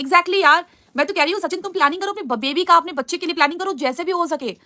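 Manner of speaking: high, insistent urging; pressing a point eagerly; emphatic agreement. Real, not acted. Emphatically agrees, urges Sachin.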